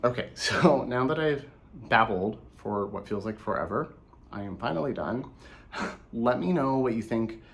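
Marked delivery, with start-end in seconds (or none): 1.9-7.4 tired, hoarse voice; losing voice, rough and hoarse. Real, not acted. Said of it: "I think I'm losing my voice again".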